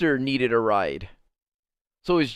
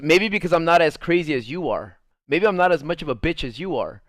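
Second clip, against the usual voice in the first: raised voice, imitating a jab at a rival; retold catty comeback; 4 semitones higher, 5 dB louder than usual. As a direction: act out her pointed insult. Retold insult in a quarrel.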